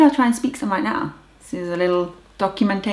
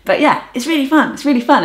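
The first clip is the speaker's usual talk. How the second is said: enthusiastic; 6 semitones higher, 5 dB louder than usual. Real, not acted. Enthused about learning.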